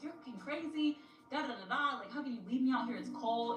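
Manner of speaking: mock outrage. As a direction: imitate an angry date protesting. Retold angry complaint outside car.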